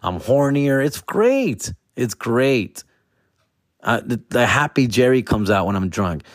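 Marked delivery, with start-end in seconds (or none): 0.8-1.7 squeaky high delight; high squeal. Acted. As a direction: jump way up in pitch.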